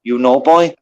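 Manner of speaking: lightly faked Irish tough guy giving mock orders; put-on Irish accent. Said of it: "I tried to make up a good accent".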